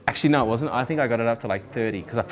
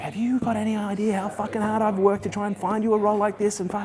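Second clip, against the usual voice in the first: mock indignant; 10 semitones higher than usual. Recruiter attacks him angrily.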